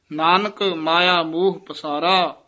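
slow reading, falling to rest on ਪਸਾਰਾ; pause after ਪਸਾਰਾ. Shown as a demonstration. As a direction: close the phrase at ਪਸਾਰਾ. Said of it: "ਪਸਾਰਾ ਪਦ ਤੇ ਵਿਸਰਾਮ ਹੈ".

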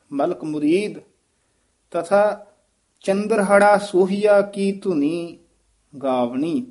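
ਚੰਦਰਹੜਾ ਸੋਹੀਆ ਕੀ ਧੁਨੀ said slowly, syllable by syllable; careful slow recitation. Shown as a demonstration. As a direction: model each syllable of ਚੰਦਰਹੜਾ deliberately. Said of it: "ਧਿਆਨ ਨਾਲ ਉਚਾਰਨ ਕਰਨਾ ਹੈ".

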